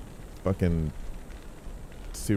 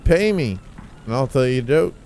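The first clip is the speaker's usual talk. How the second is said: mock comedian rant; 7 semitones higher than usual. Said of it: "it's like".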